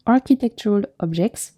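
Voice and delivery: light French accent on architectural objects; playful mock French accent. Shown as a demonstration. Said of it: "try and say that with a French accent".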